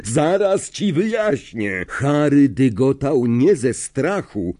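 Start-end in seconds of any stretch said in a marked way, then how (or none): 0.0-1.8 higher, insistent promise; raised-voice pleading; urgent shout. A narrator's reading. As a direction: call out to calm someone who won't listen. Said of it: "krzyknął Lapin".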